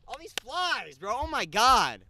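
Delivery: high, loud panicked yelp at flies; panicked squeal. Real, not acted. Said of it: "where I sound like a little bitch".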